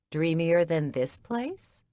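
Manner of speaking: slow, teasing smile in the voice; smiling. Acted. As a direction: say it with a gentle smile. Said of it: "she said with a smile".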